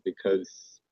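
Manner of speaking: choppy cutting-out call audio; words dropping out on a bad line; glitching audio. Real, not acted. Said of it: "You keep cutting out".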